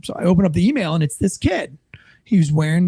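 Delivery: hushed whisper for suspense. Real, not acted. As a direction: lean in and whisper the reveal. Suspenseful reveal of the photo.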